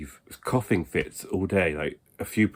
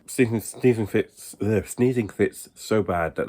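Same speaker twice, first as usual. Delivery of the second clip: exasperated; 5 semitones higher than usual. Real, not acted. Complaining about sneezing fits.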